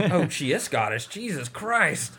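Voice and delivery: laughing, stunned disbelief, ending slow and high; playing his own shock at the discovery; amazed disbelief. Recalling discovering she was Scottish, stunned and laughing.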